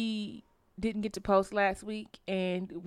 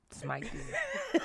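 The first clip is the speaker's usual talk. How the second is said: mock biblical God; 5 dB quieter than usual. Playing God punishing her.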